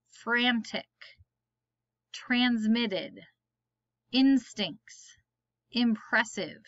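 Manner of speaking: each word said alone, clear and careful, with a pause after it; word list read aloud. Shown as a demonstration. Teacher reading spelling words to the class, slow and careful.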